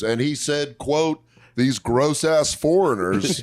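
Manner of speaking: lightly voiced reporter reading a quote; measured mock-reporter delivery. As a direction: read it out slowly like a reporter. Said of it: "My favorite is the reporter voice".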